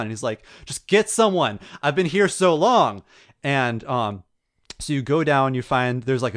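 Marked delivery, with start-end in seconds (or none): 0.6-3.0 raised, high mock-desperate plea; freaking out. Trapped man begs Jesse to fetch someone, acted desperation. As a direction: imitate a worn-out man begging, drawing out the end. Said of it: "he's freaking out".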